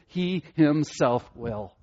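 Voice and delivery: He himself will, each word slow with weight on He; slow emphatic reading. Shown as a demonstration. Preacher savouring Peter's promise, slow and stressed. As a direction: lean hard on He, slowly. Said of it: "that's the way he says it there".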